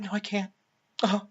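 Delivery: mock helpless. Claire giving up, acted softly.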